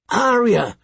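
high-pitched cry of disbelief; incredulous call. A narrator's reading. Horrified sister spots Arya fighting, incredulous call. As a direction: call her name, incredulous. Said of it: "she called out incredulously".

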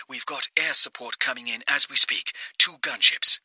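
quick and hushed, all business; calm woman on phone. Acted. March's voice held on phone.

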